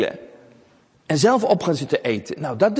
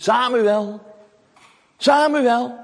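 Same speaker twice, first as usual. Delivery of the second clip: hoog en luid, Samuel twee keer roepend; roepende stem; 9 semitones higher, 4 dB louder, much slower than usual. A narrator's reading. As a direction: roep de naam over de afstand in de nacht. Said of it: "hoort hij een stem die hem roept". (stem die Samuel in de nacht roept)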